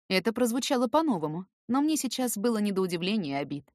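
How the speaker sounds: plain reading voice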